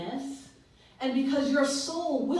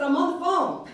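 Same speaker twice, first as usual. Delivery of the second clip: laughing; 7 semitones higher, 7 dB louder than usual. Retold or imitated. Retelling a laughing phone call.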